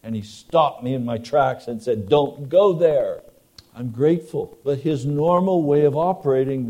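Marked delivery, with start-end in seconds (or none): 2.1-3.2 slow, louder stern command; stern yell. Retold or imitated. God halting the preacher on a bad road, slow stern shout. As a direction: stop him in his tracks. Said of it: "God has yelled at me".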